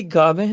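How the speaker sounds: ਗਾਵੈ with a nasal "vain" ending; nasalised ending. Shown as a demonstration. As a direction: say ਗਾਵੈ as "gaa-vain", sounding the dot. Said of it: "ਬਿੰਦੀ ਨਾਲ ਉਚਾਰਨ ਹੋਏਗਾ".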